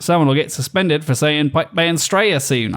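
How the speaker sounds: lightly put-on Aussie reading a message; hint of Australian accent. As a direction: read it like a cheeky Australian. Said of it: "I only have one Australian accent".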